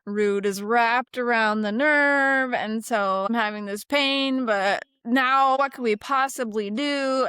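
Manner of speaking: mock panic, drawn out and pleading; imitating a panicked patient. Patient freaking out about the nerve, mock panic. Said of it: "they're like, freaking out".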